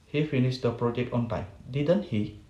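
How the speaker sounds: statement, then a falling "Didn't he"; falling tag question. Shown as a demonstration. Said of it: "second and third that indicate the intonation is fall".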